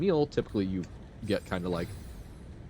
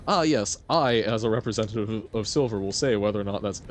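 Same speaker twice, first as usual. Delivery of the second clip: mock formal representative. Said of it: "that's not mayhap as in".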